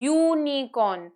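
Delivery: यूनिकॉर्न broken into yoo-nee-corn; syllable-by-syllable pronunciation. Shown as a demonstration. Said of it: "देखो जब हम बोल रहे हैं". (यूनिकॉर्न को "यू-नी-कॉर्न" तोड़कर बोलें)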